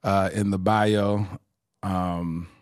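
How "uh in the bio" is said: slow, drawn-out speech. Real, not acted. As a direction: drag the words out slowly. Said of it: "I'm gonna talk real slow".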